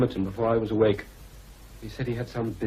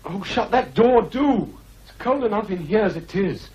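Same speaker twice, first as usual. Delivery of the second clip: higher, fretful whine; whining complaint; 12 semitones higher, 7 dB louder than usual. Acted. Linton complaining to Hareton about the cold, fretful whine. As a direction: whine like a sickly boy.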